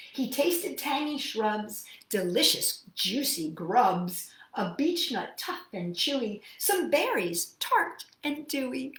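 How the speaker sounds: lilting rhyming read-aloud; story reading. A narrator's reading. Teacher reading the bear's rhyming verses to children, lilting. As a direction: savour each rhyme for the kids.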